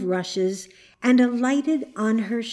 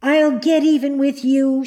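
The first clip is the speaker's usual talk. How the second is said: louder, higher angry threat; passionate anger; 5 semitones higher, 5 dB louder than usual. A narrator's reading. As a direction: threaten in a burst of temper. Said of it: "perfect passion of anger".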